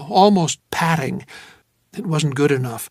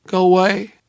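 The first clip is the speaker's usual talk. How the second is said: drowsy dismissal; sleepy woman; 3 semitones higher, 4 dB louder than usual. Acted. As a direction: mumble it, wanting sleep. Drowsy woman pushes him off.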